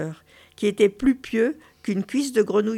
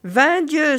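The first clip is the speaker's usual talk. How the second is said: higher, louder startled exclamation; mildly astonished outburst; exclaimed oath; 6 semitones higher, 5 dB louder than usual. A narrator's reading. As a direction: exclaim it as a doctor taken aback. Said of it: "s'exclama le docteur".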